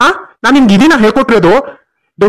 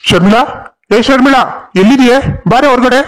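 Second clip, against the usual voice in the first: insistent, mildly raised summons; calling out; 3 semitones higher than usual. Acted. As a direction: call her out of the house. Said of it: "ಯಾಕೆ ಅಷ್ಟೊಂದ್ ಕೂಗ್ತಾ ಇದೀಯಾ".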